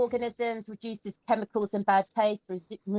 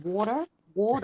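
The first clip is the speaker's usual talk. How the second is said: Aussie "water" as "wawtah", no r; Australian twang on "Water, water"; Australian accent. Shown as a demonstration. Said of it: "I said that like I was an Australian".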